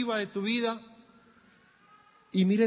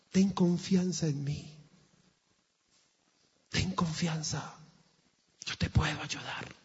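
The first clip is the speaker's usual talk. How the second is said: voice of God. Acted. The Lord speaks to troubled listeners, lightly voiced and assuring. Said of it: "El Señor ... te está diciendo".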